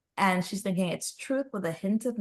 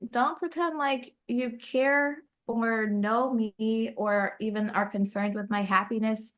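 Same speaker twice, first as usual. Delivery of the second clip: higher-pitched, mildly indignant retelling; upset retort; 4 semitones higher than usual. Retold or imitated. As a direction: act out an upset rebuke, lightly. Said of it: "she gets really upset".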